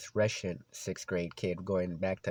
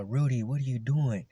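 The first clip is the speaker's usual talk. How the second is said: higher-pitched exasperated scolding; retold mad teacher; 3 semitones higher, 3 dB louder than usual. PE teacher demanding why his runner is walking, mad. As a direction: imitate a coach firing indignant questions. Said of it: "He was getting mad".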